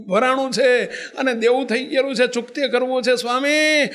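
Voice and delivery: put-on old monk weeping, pleading to bow at the saint's feet; tearful plea. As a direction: beg forgiveness through tears. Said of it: "રોતા જાય ને દંડવત કરતા જાય".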